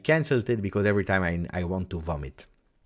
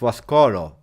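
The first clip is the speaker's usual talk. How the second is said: loud exclamation; 3 semitones higher, 11 dB louder than usual. Real, not acted. Streamer reveals who unsubscribed, loud exclamation. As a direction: punch the name out loud.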